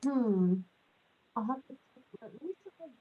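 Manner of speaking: underwater. Real, not acted. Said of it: "It sounds like you're underwater".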